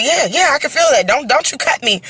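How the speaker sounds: high, urgent, pleading protest; frantic plea. Retold or imitated. Mother on operating table pleading with surgeons, frantic. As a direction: beg them not to cut.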